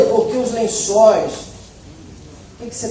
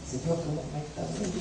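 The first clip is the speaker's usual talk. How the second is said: mock boast; 3 semitones lower, 13 dB quieter, much faster than usual. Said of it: "dá uma vontade de falar".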